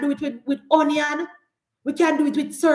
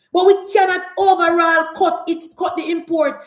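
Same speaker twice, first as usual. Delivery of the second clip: emphatic shout; 4 semitones higher, 4 dB louder than usual. Real, not acted. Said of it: "emphatic point".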